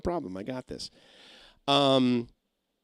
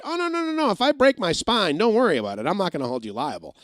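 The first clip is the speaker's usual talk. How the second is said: mocking; 7 semitones higher than usual. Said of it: "a piece of paper that said".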